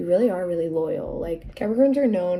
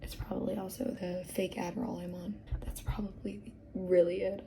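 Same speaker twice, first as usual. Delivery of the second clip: quiet confessional aside; whispered joke; 8 dB quieter than usual. Real, not acted. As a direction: drop the voice for a cheeky admission.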